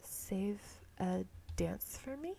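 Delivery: slow unvoiced whisper, barely there; mouthed whisper. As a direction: breathe the question without voice. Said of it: "He seems to be mouthing something".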